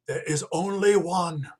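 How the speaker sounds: hushed, secret whisper. Acted. Professor whispers his grim answer to John. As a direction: breathe it so no one overhears. Grim warning about saving her.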